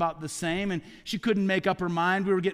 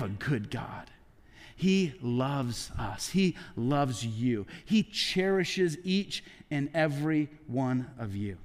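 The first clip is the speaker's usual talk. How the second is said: slow, tender reassurance; 4 semitones lower, slower than usual. Real, not acted. Preacher assures the congregation.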